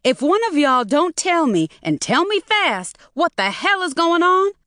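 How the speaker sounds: high, loud furious shriek. A narrator's reading. Mother shrieks down the phone at son-in-law. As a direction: scream at them, losing it. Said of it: "Maureen shrieked".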